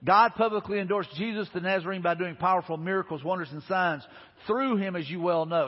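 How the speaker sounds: firm public proclamation, slightly heightened; preaching to crowd. Retold or imitated. Peter addressing the people of Israel, mildly proclaiming. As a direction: proclaim it as a quoted street sermon. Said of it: "Peter preaches to the crowd".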